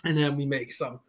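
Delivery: talking around a sip; words just after a drink; while sipping a drink. Real, not acted. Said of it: "excuse me, I was taking a drink here".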